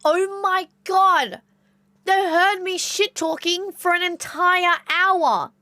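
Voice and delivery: high, drawn-out mortified outburst; panicked cousin. Retold or imitated. Cousin realising they heard her shit-talking, high horrified wail. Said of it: "my cousin was like".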